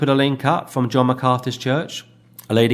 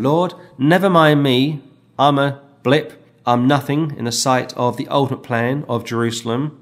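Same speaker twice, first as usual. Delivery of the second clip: pleading prayer; 3 dB louder than usual. Acted. Voices David praying to God.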